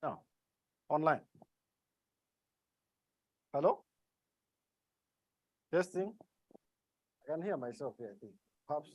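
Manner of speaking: very faint, far from the mic; speaking too softly to hear; barely audible. Real, not acted. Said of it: "your voice is very low".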